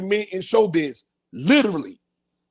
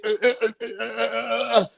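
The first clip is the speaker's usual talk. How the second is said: imitated tased stutter; 3 semitones higher than usual. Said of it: "I'm on the ground shaking".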